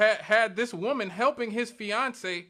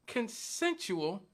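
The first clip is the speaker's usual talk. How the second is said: consensual set apart after a pause; pause, then land firmly on consensual; emphasis on consensual; 3 semitones higher, 3 dB quieter, much slower than usual. Real, not acted. Host arguing both share blame, consensual stressed after a pause. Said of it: "Emphasis on the word consensual".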